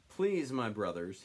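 slow, earnest plea to the crowd; a touch of pleading; mild begging. Acted. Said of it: "he begged".

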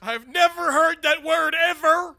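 gruff colonel shout. Acted. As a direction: bark it like an old colonel. Colonel barks in disbelief.

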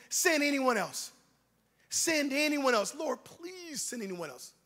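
slow, drawn-out begging; pleading. Acted. Moses begs the Lord to send another, slow pleading. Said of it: "again pleaded".

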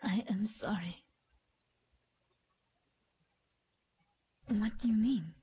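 whisper. Acted. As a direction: keep it under your breath. Character apologizes in a whisper.

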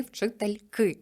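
вчительки with stress on ки; stress on the ending. Shown as a demonstration. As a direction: land on ки in вчительки. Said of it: "з наголосом ось на закінчення". (наголос на закінченні «ки»)

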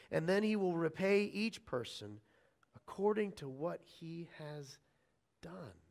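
measured public Bible reading, phrase by phrase; scripture reading. Acted. Preacher reads the morning's verses to the church, solemn scripture reading. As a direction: read it out to a congregation, letting the last words drop away.

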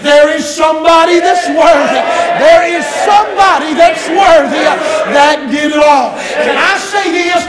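loud, ringing, half-sung pulpit climax; preaching at full force. Acted. Pastor testifying that only Christ changes lives, fervent half-sung preaching. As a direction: build it up like a gospel preacher nearing the altar call.

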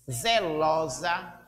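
slow, drawn-out "zelosa"; teacher's example word "zelosa", stretched out; split into syllables. Shown as a demonstration. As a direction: sound out "zelosa" slowly, syllable by syllable. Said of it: "sílaba final, sa, nelas".

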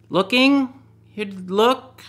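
high, loud fake Italian attempt; mock Italian. To the Italian guard, answering in fake Italian, high and loud. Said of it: "something in Italian".

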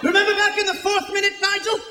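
lightly voiced British soccer commentator; mock British play-by-play announcer, riveted by nothing. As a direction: play the breathless TV commentator over a dull match.

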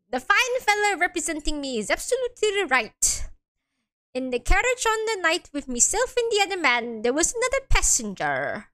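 lightly voiced Irish defendant; attempted Irish accent. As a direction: try a rough Irish lilt. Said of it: "I can't do the Irish accent".

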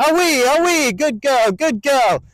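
high, loud praise to the dog; encouraging shout to the dog; encouraging call. Shown as a demonstration. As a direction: cheer the dog on. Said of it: "Lots of encouragement".

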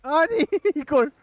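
panicked shouting. Real, not acted. Panic during attack.

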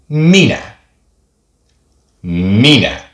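minä with a quick single m; short Finnish m. Shown as a demonstration. Teacher showing the short m sound in minä. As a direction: say minä lightly, mi-nä, no hold on the m. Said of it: "The short sound of that".

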